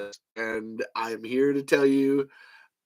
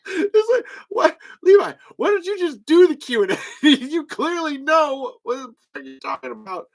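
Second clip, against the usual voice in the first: higher, louder, laughing through it; laughing mockery; 12 semitones higher, 5 dB louder than usual. Real, not acted. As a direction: tease them while cracking up. Mocking the cast, laughing.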